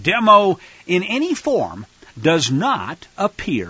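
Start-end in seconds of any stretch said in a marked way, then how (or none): 2.2-3.7 said slowly. Shown as a demonstration. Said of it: "let me say this slowly".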